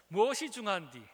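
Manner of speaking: a lighter Jeolla echo of the line; Jeolla dialect again. Shown as a demonstration. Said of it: "전라도 사투리로 이 말이 참 저는 마음에 드는데".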